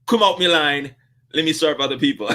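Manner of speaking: loud, curt order out of the line; sharp command. Retold or imitated. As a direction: bark him off the queue. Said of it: "she said".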